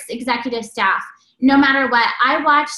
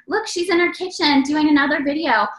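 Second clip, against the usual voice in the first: mildly mocking imitation, pitched up; making fun; 4 semitones higher than usual. Critics gossiping about her kitchen videos, mildly making fun. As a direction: lightly mimic people poking fun. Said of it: "people making fun of me".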